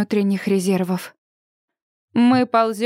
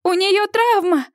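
higher urgent call into a phone; mild shouted call into the phone, higher; shouting into phone; 7 semitones higher, slower than usual. A narrator's reading. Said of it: "кричит Сьюзи в телефон".

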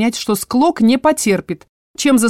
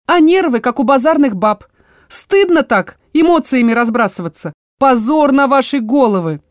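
put-on higher, louder old woman's scolding; scolding dryad; 5 semitones higher, 4 dB louder than usual. Tree-spirit Motya shaming the squabbling vampires, higher scolding. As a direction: tell them off like a stern grandma.

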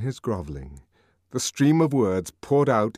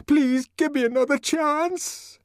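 higher, slower, wailing begging; drawn-out tearful plea; 4 dB louder than usual. A narrator's reading. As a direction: stretch out the plea in despair. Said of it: "The tears began to flow".

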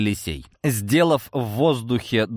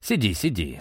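calm; 3 semitones lower, 3 dB quieter than usual. Acted. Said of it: "спокойно".

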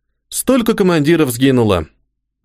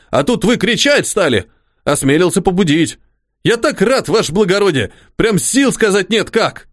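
simple soldier voice; 6 semitones higher than usual. Acted. The orderly Pakhom speaking.

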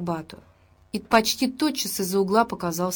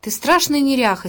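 louder, higher scolding outburst; angry rebuke; 6 semitones higher, 6 dB louder than usual. A narrator's reading. Stepfather rebukes the girl for her mess, angrily. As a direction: snap the insult at her. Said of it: "сердито повторил Митя".

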